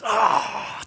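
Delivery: mock exasperated huff at an annoying person; frustrated groan. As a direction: let out an inner groan of annoyance. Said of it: "wir schreien nicht so ins Telefon".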